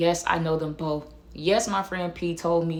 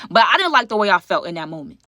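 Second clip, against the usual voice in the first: indignant rant; 2 semitones higher, 4 dB louder than usual. Real, not acted. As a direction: vent your outrage to the viewers. Ranting at audience about call.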